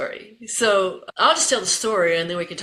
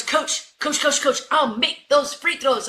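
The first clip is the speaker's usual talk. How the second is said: higher-pitched, eager begging; pleading player; 7 semitones higher, slower than usual. Retold or imitated. Benched player to her coach, eagerly pleading. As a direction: imitate a player desperate to play.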